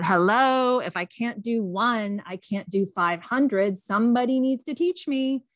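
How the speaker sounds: half-acted outburst, drawn out in the middle; retold yell. Frustrated student to teacher, mild mock yell. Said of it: "he yells as if he was using a megaphone".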